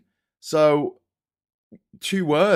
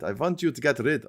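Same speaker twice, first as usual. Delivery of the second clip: lightly put-on Russian accent; a hint of a Russian accent. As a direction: attempt a mild Russian accent. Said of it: "say it in a Russian accent".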